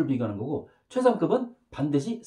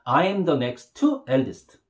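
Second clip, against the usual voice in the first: slow model sentence; 3 semitones lower, much slower than usual. Shown as a demonstration. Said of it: "따라합니다".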